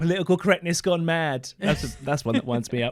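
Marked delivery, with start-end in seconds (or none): 0.0-1.5 dripping, scornful, heavy sarcastic tone. Imitating people who say political correctness gone mad: imitating a sarcastic tone. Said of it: "a really sarcastic tone".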